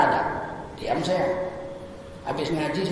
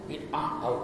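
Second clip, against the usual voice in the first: mock accuser; 6 semitones lower, 11 dB quieter than usual. Imitates accuser.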